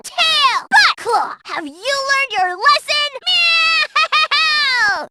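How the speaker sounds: cat character battle cries. Acted. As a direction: yowl the commands like a feisty cat captain. Cat gang leader battle barks.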